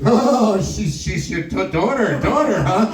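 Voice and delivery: mock flustered stammer, bursting in on the first word. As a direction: imitate a man stumbling over his words. Confronted man realises she's his daughter.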